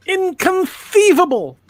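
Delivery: put-on very high, slow, drawn-out Castilian accent; theatrical villain with a Castilian Spanish accent. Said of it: "That's what the Castilian accent".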